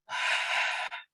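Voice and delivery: soft, airy sigh of release; breathing out. Shown as a demonstration. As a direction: let the breath go to guide the group. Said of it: "And breathe".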